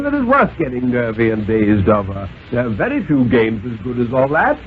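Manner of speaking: a lightly voiced stern, reasoning father; a hint of a condescending father; father's voice. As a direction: coax the boy like a patient but superior dad. Father questions son at table.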